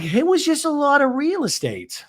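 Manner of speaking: high put-on Gina voice; lightly voiced Gina; imitating Gina. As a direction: sigh it out like a busy agent. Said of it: "And she's like".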